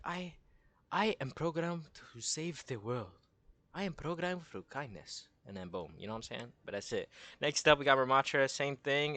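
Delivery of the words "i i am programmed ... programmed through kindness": higher, measured put-on character voice; Orisa. Streamer imagining Orisa refusing to fight, higher put-on voice. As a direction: state it in a higher, deliberate impression voice. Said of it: "She's like".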